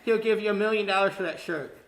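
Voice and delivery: loud, high, laughing tease. Real, not acted. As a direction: crack up while teasing. Laughing, teasing the winner. (nevetve, hangosan ugratva)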